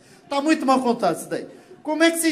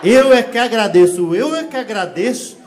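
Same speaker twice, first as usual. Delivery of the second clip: eu é que agradeço drawn out slowly, loud on the first eu; slow emphatic thanks; 7 dB louder than usual. Pretend. Comedian outdoing the Portuguese in politeness, slow and emphatic. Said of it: "explode a cabeça do português".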